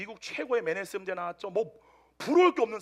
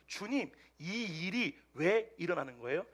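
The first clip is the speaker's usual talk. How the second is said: calm, unruffled question; 5 dB quieter, slower than usual. Retold or imitated. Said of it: "너무나 태연하게 물어봤대요".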